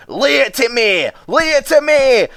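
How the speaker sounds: high, loud rallying cry; urging Douglas. Acted. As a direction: drive the trucks hard.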